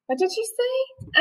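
high, slow, soft fox voice; sly fox. Acted. Fox pretending he cannot hear, sly slow question. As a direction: ask slyly as if hard of hearing.

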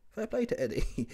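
ordinary delivery

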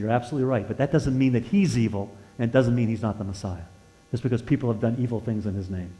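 soft, quiet and conciliatory; calm her down gently; preacher quietly conceding to the angry woman, gentle; gentle reply. Retold or imitated.

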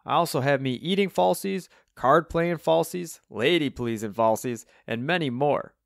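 put-on chirpy old Cockney character; cheery Cockney twang. A narrator's reading. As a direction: show off proudly in a Cockney voice. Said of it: "said Alvin in his cheery Cockney twang".

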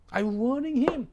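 high, loud stern warning. Retold or imitated. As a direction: warn him sharply from the pulpit.

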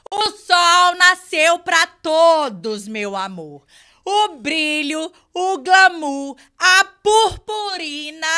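very loud, high, drawn-out catchphrase; Thaís Teixeira. Acted. Rival taking her turn in an imitation contest, loud stretched mimicry. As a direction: belt each phrase out slowly, over the top. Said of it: "incorporar a Thaís Teixeira".

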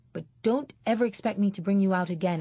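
quick, sharp telling-off; fast scolding. Acted. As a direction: hurry the scolding out. Mother scolding child.

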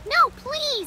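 high, loud begging; mock terror as he's grabbed; pleading cry. Monster grabbing him, pleading.

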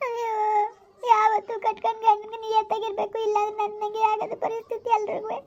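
sobbing between phrases; tearful lament. Acted. Woman alone lamenting her ruined life, crying. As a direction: mourn your ruined life in tears. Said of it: "ಇನ್ನೂ ಅಳ್ತಾ ಕುಂತವಳೆ".

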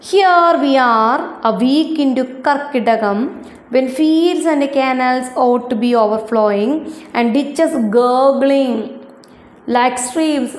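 slow, careful textbook reading; reading aloud. Acted. Teacher reading the excerpt to her ninth-graders, slow and careful. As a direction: spell each English word out slowly for the class.

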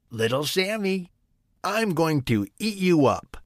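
put-on storybook tiger threatening to eat the boy; menacing tiger. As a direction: pounce on him with the threat.

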